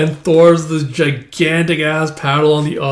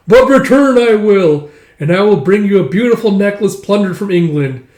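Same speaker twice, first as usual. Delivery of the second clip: higher, louder mock-heroic boasting; grandiose heroic declaration; 4 semitones higher, 4 dB louder than usual. Young warrior bidding Ylva farewell, grandiose.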